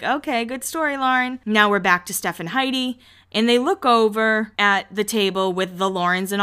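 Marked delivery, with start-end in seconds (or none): 0.0-1.4 higher, dry sarcastic "good story"; a light sarcastic brush-off; mock unimpressed. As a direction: pretend to be politely unimpressed. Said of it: "you're like".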